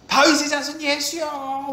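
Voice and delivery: high, drawn-out cry for help; crying out loudly. Retold or imitated. Blind Bartimaeus calling to Jesus for mercy, crying out. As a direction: call out high and long, imitating a desperate shout. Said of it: "더 크게 소리 지르지 않습니까".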